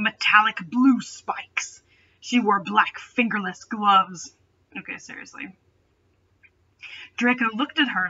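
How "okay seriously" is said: ordinary talk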